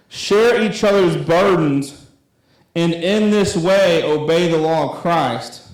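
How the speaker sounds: slow, measured Bible reading; scripture reading. Acted. Youth pastor reading Galatians to the group, slow and measured. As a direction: read the verse slowly and deliberately. Reads scripture aloud slowly.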